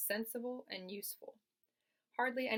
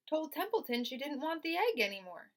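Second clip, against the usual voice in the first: put-on higher little girl voice; 8 semitones higher, 4 dB louder than usual. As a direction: patiently repeat it. Fern voiced.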